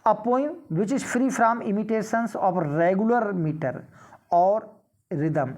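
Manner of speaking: reads the exam question aloud, very slow and deliberate; slow question reading. Acted. Teacher reading a quiz question to students, slow and measured. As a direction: spell out each word of the question for the class.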